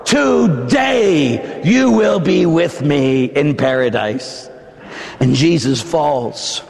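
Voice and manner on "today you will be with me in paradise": Jesus's promise. Acted. Preacher voicing Jesus, repeated.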